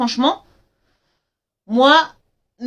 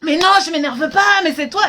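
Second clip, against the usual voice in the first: imitating irritated father; 5 semitones higher than usual. Angry father voiced in story.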